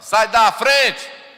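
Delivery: loud, slow, rude shout. Shown as a demonstration. A rude family member barking to get past, loud and slow. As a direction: bark it out like shoving someone aside. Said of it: "a gente fala".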